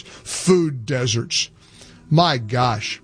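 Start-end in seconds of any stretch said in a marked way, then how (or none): 0.0-1.5 suppressed laugh. Real, not acted. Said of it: "I can't even say that with a straight face".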